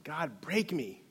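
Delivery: high, drawn-out cry without full volume; retold yell. Man praying alone in shadow, mock yelled plea. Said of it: "just yelling top of my lungs".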